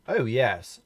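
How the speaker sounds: loud miserable moan. A narrator's reading. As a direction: moan it out, sick and sorry. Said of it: "moaned Mister Greedy".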